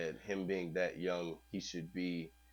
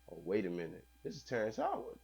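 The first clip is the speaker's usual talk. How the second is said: mock astonished realization; 2 semitones higher than usual. Onlookers realizing the actor is a scientist, mildly hammed-up disbelief.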